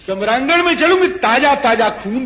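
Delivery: lightly voiced demoness, high insistent demand. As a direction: raise the pitch high in a mock insistent demand. Shurpanakha's blood demand, acted. (राक्षसी की ऊँची, ज़िद भरी माँग)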